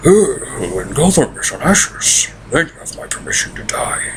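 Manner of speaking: mocking cheery British villain; Bane. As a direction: put on a jolly British accent for a menacing line. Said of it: "he sounds cheery and British".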